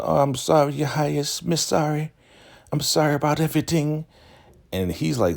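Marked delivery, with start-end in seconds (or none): 0.0-4.1 very high, put-on pleading voice; grovelling apology. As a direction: imitate someone grovelling to a ruler in a squeaky voice. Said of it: "She's just very apologetic".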